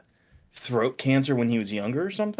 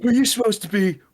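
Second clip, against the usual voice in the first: lightly voiced, higher, louder movie character; quoted movie goon; 10 semitones higher, 5 dB louder, faster than usual. Friend quoting a film to his co-host, mock challenge. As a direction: put on a loud, raised character voice.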